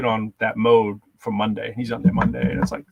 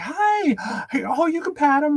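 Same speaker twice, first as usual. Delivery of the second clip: much higher, sugary stranger voice; sweet luring voice; slower than usual. Retold or imitated. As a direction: lure the kid in with a sing-song. Stranger lures kid, puppy.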